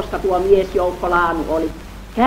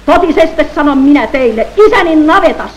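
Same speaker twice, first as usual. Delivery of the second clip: loud, high proclaiming shout; high, loud solemn shout; shouting with great force; 4 semitones higher, 5 dB louder than usual. Acted. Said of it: "huuti suurella voimalla".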